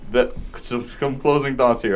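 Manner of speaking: slow, winded speech; panting after the race; out of breath. Real, not acted. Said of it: "I can't even talk".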